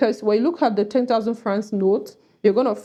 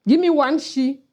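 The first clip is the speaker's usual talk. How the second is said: Cameroonian pidgin; 3 semitones higher than usual. Shown as a demonstration. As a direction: say it like a Cameroonian at the market. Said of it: "When the Cameroonian says".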